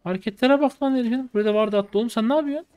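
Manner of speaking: real amused outrage; excited jeering. Real, not acted.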